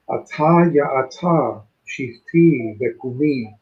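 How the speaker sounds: slow, rhythmic reading of "Ata ya ata, shifti vekumi" in Hebrew; Hebrew verse read aloud. Shown as a demonstration. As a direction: lay out each syllable of "Ata ya ata, shifti vekumi" so the rhyme is heard. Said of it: "So notice the ta".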